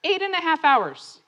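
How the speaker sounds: EIGHT pitched high in a wailed complaint; mock sobbing complaint. Sobbing runner to Steve about the race, high mock wail. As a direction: lament "Eight and a half hours", high and falling. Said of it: "I'm, I'm sobbing".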